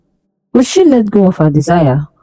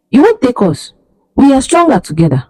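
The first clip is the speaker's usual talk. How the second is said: strong voice; 5 semitones higher than usual. Acted. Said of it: "her voice strong".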